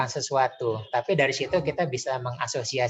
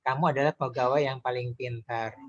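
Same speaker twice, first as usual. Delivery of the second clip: praising tone. Shown as a demonstration. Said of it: "Dengan nada memuji".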